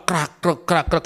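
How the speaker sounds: crackly mimicked rustle of pages; spoken rustling sound effect; imitated page rustling. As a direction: imitate pages being rifled through. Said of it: "kan bunyi kresek ya".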